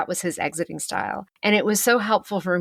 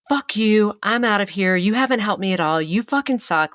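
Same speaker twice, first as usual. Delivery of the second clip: angry outburst; 4 semitones higher than usual. Retold or imitated. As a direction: snap it out like he's storming off. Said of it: "Just tears her apart".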